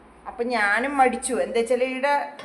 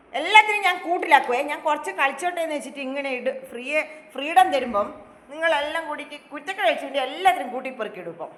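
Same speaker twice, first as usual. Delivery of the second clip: mock scolding; 4 semitones higher than usual. Threatening the pets.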